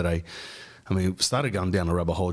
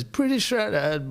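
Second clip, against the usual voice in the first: much higher, slow, drawn-out Bulgarian doctor; mock Bulgarian accent; 12 semitones higher, much slower than usual. Doctor teases the podcaster about his weight in a mock Bulgarian accent. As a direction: stretch it out in an overdone Bulgarian accent. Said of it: "a sixty-two-year-old Bulgarian guy".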